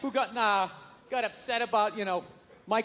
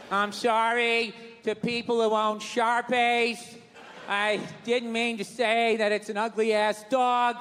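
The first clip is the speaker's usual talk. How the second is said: mock public apology; slower than usual.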